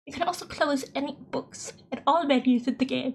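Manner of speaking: lightly put-on British reading voice; British accent. Player reading the guidebook aloud, trying a British accent. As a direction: read it out in an attempted British accent. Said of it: "sustain, like, a British accent".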